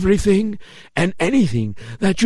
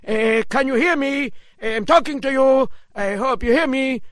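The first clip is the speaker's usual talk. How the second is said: anxious townsman; 3 semitones higher than usual. Acted. Townsman calling to rabbi.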